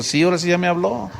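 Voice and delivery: quick words through laughter; laughing at his own confusion. Real, not acted. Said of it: "yo estaba todo sacado de onda". (entre risas)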